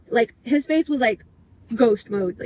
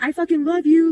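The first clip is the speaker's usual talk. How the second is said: mock yell, raised and higher; retold screaming; 5 semitones higher, 4 dB louder than usual. Boyfriend declaring love while wife listens, mock scream. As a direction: imitate a desperate scream, only partly raised. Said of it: "screaming it".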